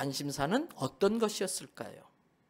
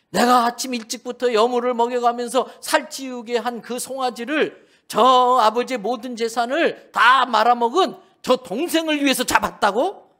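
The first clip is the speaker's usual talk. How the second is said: loud, higher, indignant protest; the furious older brother spitting out his grievance; outraged elder son; 5 semitones higher, 7 dB louder than usual. Acted. (분노한 큰아들의 큰 목소리)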